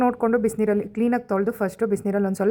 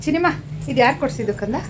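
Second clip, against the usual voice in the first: put-on high sing-song coaxing voice to a baby; baby talk; 8 semitones higher, 3 dB louder than usual. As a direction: coo at the little one, rising higher. Mother coaxing her baby.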